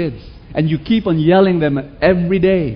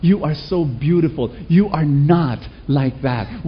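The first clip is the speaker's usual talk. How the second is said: put-on tender reassurance to a child. Shown as a demonstration. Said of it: "in the same breath, be able to say".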